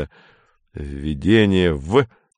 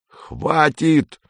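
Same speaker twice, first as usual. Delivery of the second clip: higher, sharp shout to cut them off; yelled; 7 semitones higher than usual. A narrator's reading. Captain cutting off the excited boys with a yell. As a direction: slam the door on the chatter. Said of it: "заорал капитан".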